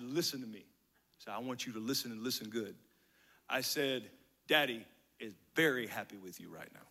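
put-on sit a child down gently and seriously; earnest dad. Dad telling his boy he is happy, low and earnest. Father solemnly addresses his son.

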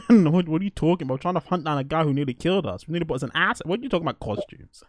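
fast incredulous outburst; baffled and impatient; exasperated. Retold or imitated. Doctor character exasperated quote.

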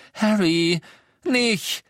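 high, urgent plea; pleading. A narrator's reading. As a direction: beg him to stop. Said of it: "bat ihn Hermine". (Hermine fleht Harry an aufzuhören)

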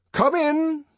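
high, loud call to enter; commanding. A narrator's reading. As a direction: summon someone from the passage. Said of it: "he commanded".

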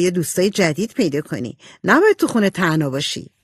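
lightly voiced lively girl, quick to invite; light touch of an eager, friendly character voice. Voices Jo in dialogue. (صدای نمایشی سبکِ دختری پرشور و صمیمی)

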